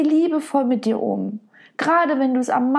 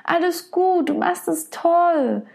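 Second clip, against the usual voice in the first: lightly higher, gentle reassurance; reassuring friend; 3 semitones higher than usual. Retold or imitated. Coach voicing a friend hugging someone who is hurting, tender and encouraging. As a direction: comfort her like a dear friend. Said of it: "in den Arm nehmen und sagen".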